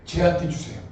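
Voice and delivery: loud, high, half-laughing lament; loud mock-despairing plea; exasperated complaint. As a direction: wail Abraham's frustration at God. Abraham's complaint voiced by preacher.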